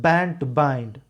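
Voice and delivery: BAND and BIND both stressed on the opening B; stress on B words. Shown as a demonstration. Teacher shows stress in the poem's phrase, stress on BAND and BIND. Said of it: "stress हो रहा है".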